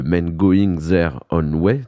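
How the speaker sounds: slow, clumsy English accent with French vowels; bad English accent. Real, not acted. Radio host stumbling through an English name, in a bad English accent. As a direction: spell out the English name carefully in a poor English accent. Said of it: "Désolé, mon accent anglais est très mauvais".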